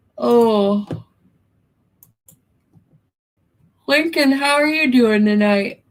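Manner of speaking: talking through a yawn. Speaker greets someone tonight, needing bed soon, yawning while talking. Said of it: "I'm sorry I'm yawning".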